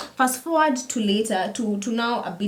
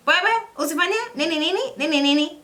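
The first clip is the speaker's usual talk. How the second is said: shocked disbelief; 8 semitones higher, faster than usual. Retold or imitated. Retelling shock at being slapped.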